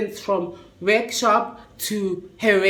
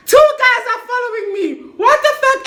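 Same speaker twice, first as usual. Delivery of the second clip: higher, laughing out the words; laughing disbelief; 10 semitones higher, 4 dB louder than usual. Real, not acted. Laughing disbelief retelling danger.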